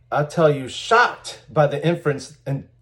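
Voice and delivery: mock shock, stress on "shocked"; dripping sarcasm. Reading out a sarcastic forum post about Chicago trucking, mock-shocked. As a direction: play up the false astonishment a little. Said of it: "This is dripping with sarcasm".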